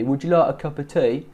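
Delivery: imitated Cockney, "like" towards "loike"; Cockney accent. Coach imitating her going Cockney, Cockney accent. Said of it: "she's kind of going Cockney".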